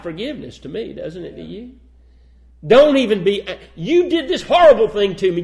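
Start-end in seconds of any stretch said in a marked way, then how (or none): 2.7-5.4 louder preacher voicing Joseph's reproach; emphatic Joseph. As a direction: lay the wrong out firmly for the brothers. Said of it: "Joseph makes that clear".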